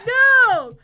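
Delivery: a sudden squeaky crack upward; voice cracking up an octave. Real, not acted. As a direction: voice cracks high on the word. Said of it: "My voice just cracked".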